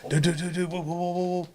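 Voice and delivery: high, rapid-fire panicked stammer; scared stiff. Retold or imitated. Storyteller voices Chad facing the gun, scared stiff. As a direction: imitate a terrified man babbling to back off. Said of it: "thought Chad was gonna piss himself".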